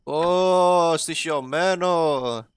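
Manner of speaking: playful spooky drawl; mock spooky. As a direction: stretch it out like a campfire ghost story. Spooky haunted room in game.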